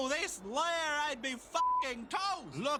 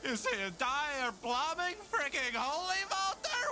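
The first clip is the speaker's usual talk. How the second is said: exasperated shout; 8 semitones higher than usual. Acted. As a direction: drag it out in outrage. Plumbing is holy water.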